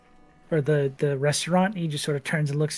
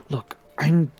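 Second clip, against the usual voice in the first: defensive informant voice. Acted. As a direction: brush off the concern, lightly voiced. GM voices Bimbus.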